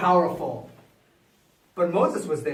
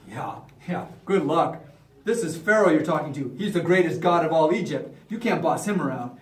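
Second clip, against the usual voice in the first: dismissive; 4 semitones lower than usual. Acted. Magician scoffing at Moses' demand, low dismissive aside. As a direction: brush him off under your breath.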